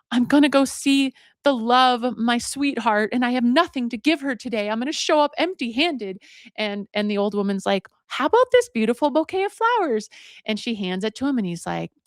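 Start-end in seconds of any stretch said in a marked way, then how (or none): 0.1-6.2 higher, lightly acted woe; a touch of lovesick complaint; mild lament. Man with no gift for sweetheart, mock forlorn. 8.1-10.1 high, coaxing storybook voice; eager offer. Retold or imitated. Old woman offering man her flowers, eager.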